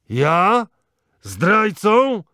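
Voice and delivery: insulted sheikh shouting in outrage; angry shout. Acted. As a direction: hurl the word back in fury. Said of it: "krzyknął gniewnie starzec".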